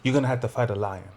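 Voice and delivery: lightly put-on African accent; bad African accent. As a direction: quote her in a weak African accent. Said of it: "I just gave you a bad African accent".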